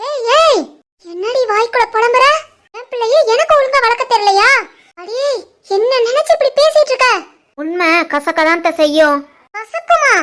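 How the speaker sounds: high, sharp mother-in-law scolding; mother-in-law rebuking the daughter-in-law, indignant. Acted. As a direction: hit her high with outrage.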